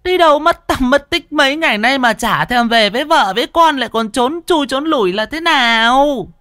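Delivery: very high, loud scolding wife calling her husband; a fierce wife hollering for her runaway husband; high, loud nagging-wife shout; shrill shrew wife yelling. A narrator's reading. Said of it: "đúng là cái giọng của con sư tử nhà mình".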